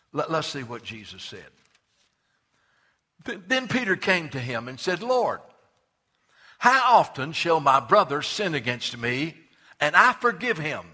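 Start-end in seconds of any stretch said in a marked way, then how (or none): 5.0-10.8 earnest question. Acted. Peter asks Jesus.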